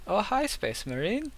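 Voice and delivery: high, slow mock cultist voice; silly cultist accent. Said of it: "all the cultists have a Hunt's accent".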